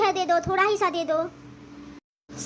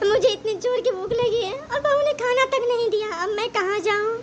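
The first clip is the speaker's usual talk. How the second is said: crying; 2 semitones higher than usual. Acted. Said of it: "अरे माँ, आप रो क्यों रही हैं?".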